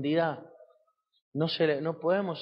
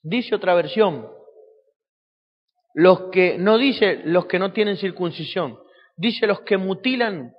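loud, raised preacher's voice; forceful preaching; 4 semitones higher, 8 dB louder than usual. Real, not acted. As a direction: call the verse out to the congregation. Preacher calls out verse, louder. (prédica enérgica a viva voz)

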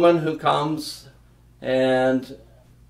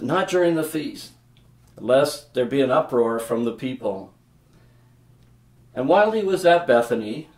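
scripture reading. A narrator's reading. Reads the Bible passage aloud.

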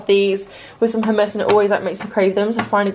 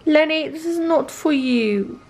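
talking to the cat; 7 semitones higher, much slower than usual. Real, not acted. Scolding the cat off the bag.

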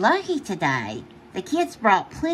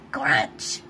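crunch sound; 9 semitones lower than usual. Shown as a demonstration.

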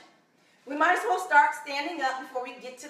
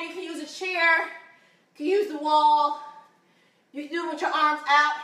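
breathing hard between phrases; catching breath. Real, not acted. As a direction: still a bit winded. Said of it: "catching my breath".

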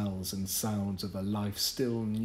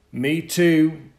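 friendly reply; 7 semitones higher, 12 dB louder than usual. Acted. Bennett replies.

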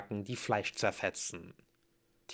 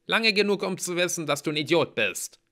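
high, loud start, easing down; growled retort; 8 semitones higher, 6 dB louder than usual. A narrator's reading. Mallory insults the hero, growling irritably. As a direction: throw the insult back crossly. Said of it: "knurrte sie".

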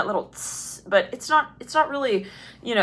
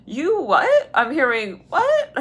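incredulous, squeaking high on the questions; mock freak-out; 4 semitones higher, slower than usual. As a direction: pitch leaping up on each what. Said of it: "someone here is kind of freaking out".

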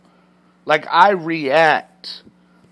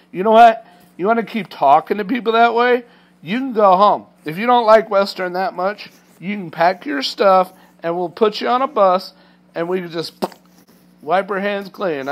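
loud, higher angry scolding; retold yelling; 4 semitones higher, 3 dB louder than usual. Safety guy scolding the trainee, loud angry. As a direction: scold him hard.

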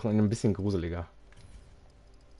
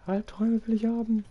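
very high, loud eager shout; excited shout; 14 semitones higher, 5 dB louder than usual. Acted. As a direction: shriek the wish out with glee. (sehr hoch und laut begeistert)

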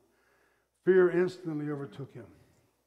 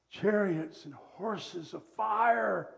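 slow emphasis; 2 semitones higher, slower than usual. Real, not acted. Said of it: "preacher slowing for emphasis".

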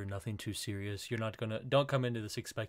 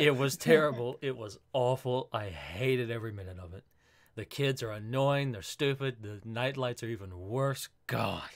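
deadpan fake-hateful review; mock-disgusted rant, tongue in cheek; sarcastic tone; 3 dB louder than usual. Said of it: "this is Wolf's sarcastic tone".

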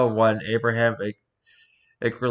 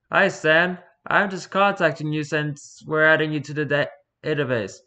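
lightly voiced higher interviewer; cheerful interviewer; 5 semitones higher than usual. Interviewer greeting Satan for the database, lightly chirpy. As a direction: play a chirpy clueless official, slightly raised.

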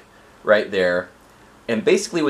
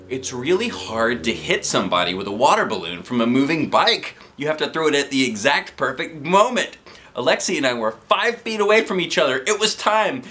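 building suspense; 7 semitones higher than usual. A narrator's reading. Narration builds suspense before hit.

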